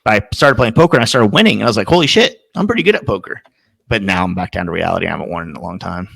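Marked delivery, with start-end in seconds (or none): 1.9-3.4 high-pitched mock amazement; retold pleased surprise. Player recalling his winning streak, high-pitched self-amazement. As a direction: marvel at yourself in a higher voice.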